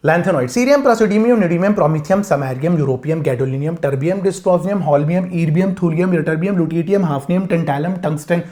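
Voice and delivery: singsong run of element names; recited from memory. Shown as a demonstration. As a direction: reel off a memorized list. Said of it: "मैं आपको सुना सकता हूँ".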